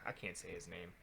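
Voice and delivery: whispered, giving up; low whisper under the breath; hushed aside. Real, not acted. Co-host stuck on a player's name, hushed aside.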